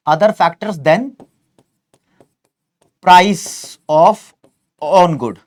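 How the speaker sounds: slow, a clear pause after each word; measured out term by term, slowly. Real, not acted. Teacher drilling a key economics term into students, word by word.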